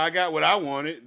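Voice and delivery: normal talking voice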